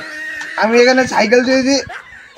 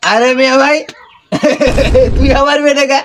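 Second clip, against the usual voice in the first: put-on belligerent drunk; 3 dB louder than usual. Drunk man rambling to the goat.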